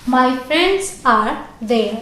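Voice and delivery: very slow, word by word; slow example read. Shown as a demonstration. Teacher reading example sentence slowly to class. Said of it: "मेरे दोस्त वहां हैं".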